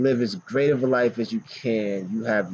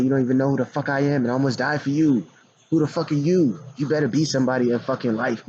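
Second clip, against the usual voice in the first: imagined angry outburst; 4 semitones higher, faster than usual. Retold or imitated. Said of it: "That's why I was mad at him".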